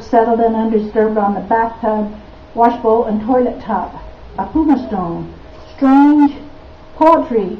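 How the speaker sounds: deliberate recital, dwelling on each item; poetry reading. Acted. Poet describing a filthy bathroom to an audience, deliberate recital. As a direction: read it as a poem, list-like and measured. Reads her poem Dirty.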